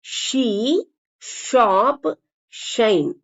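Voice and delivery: ஷீ, ஷாப், ஷைன் each opening on a clear sh; initial SH. Shown as a demonstration. Teacher drilling sh at word start for learners, clearly. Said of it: "முன்னாடி வர்ற இஷ்".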